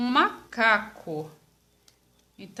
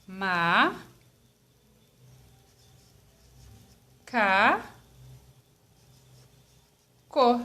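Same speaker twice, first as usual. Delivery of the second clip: "ma, ca, co" as three isolated syllables with long pauses; 3 semitones lower, much slower than usual. Shown as a demonstration. Teacher dividing macaco into pieces, syllable by syllable. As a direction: say "ma, ca, co" one slow piece at a time. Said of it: "vai ficar assim".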